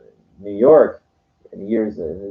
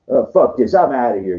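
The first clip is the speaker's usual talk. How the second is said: mock angry; 4 semitones higher, 5 dB louder than usual. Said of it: "that's an angry, emotional-based decision".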